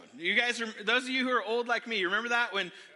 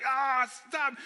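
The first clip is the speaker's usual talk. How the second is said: higher, drawn-out whiny protest; embarrassed protest; 5 semitones higher, 3 dB louder than usual. Retold or imitated. Teased boy begging buddies to quit, embarrassed protest.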